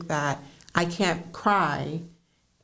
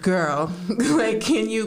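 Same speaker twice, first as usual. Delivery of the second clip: laughing mock therapist; 5 semitones higher, much slower than usual. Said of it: "And she'd be like".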